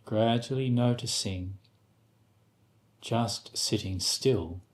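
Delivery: unhurried guidance with long pauses between phrases; guided meditation. Acted. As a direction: gently guide them into stillness, leaving space after each instruction.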